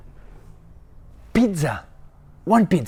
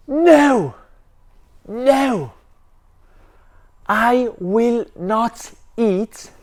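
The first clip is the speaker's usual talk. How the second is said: angry yell; 2 semitones higher than usual. Acted. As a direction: shout it like a stubborn kid who won't eat. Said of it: "and Ben yelled".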